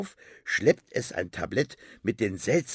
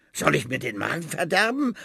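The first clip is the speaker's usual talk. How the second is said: fast, higher snappish retort; hissing snap; 6 semitones higher, 3 dB louder, faster than usual. Acted. Rat snapping at Finn, fast and sharp. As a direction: snap back at him quickly. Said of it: "faucht die Ratte".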